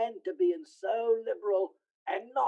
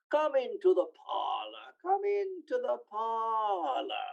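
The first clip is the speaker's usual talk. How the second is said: calling out; 4 semitones higher than usual. Acted. Joe calls guests in.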